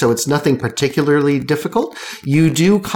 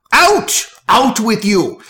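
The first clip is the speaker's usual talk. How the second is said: high, loud outraged cry; shouting him out; 8 semitones higher, 3 dB louder, slower than usual. Acted. Alphonse yells the cat out from behind the bar, high and loud. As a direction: throw the intruder out with a yell. Barkeep throws out intruder.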